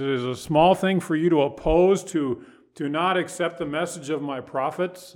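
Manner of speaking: "small" pushed up and loud. Shown as a demonstration. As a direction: press the question hard. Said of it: "repeated quote, louder".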